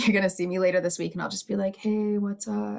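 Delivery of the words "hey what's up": relaxed, easygoing, super-chill laid-back tone. Imagining greeting people later this week: mock super-chill greeting. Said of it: "Like, so chill".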